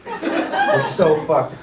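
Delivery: slow, dragged-out so fucked; dragged laughing lament; slow drawn-out despair. Shown as a demonstration. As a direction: let each word sink, very slowly. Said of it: "repeated punchline, slowed".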